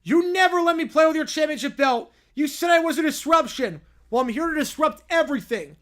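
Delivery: loud, high furious tantrum; angry toddler growl. Acted. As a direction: yell it like a raging toddler. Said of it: "his usual whiny voice now a distorted growl".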